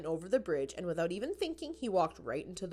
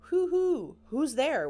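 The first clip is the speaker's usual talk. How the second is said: whisper; 8 semitones higher, 6 dB louder, slower than usual. A narrator's reading. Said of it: "whispered Franklin".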